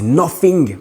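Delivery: English word in an American accent. Shown as a demonstration. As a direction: put on a show-off American accent. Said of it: "Vous avez vu l'accent?".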